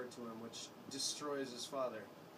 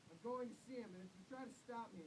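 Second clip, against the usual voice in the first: angry shout; 9 semitones higher, 7 dB quieter than usual. A narrator's reading. Father forcing his way to his son, angry shout. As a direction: push past them with a threat. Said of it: "And Father shouted".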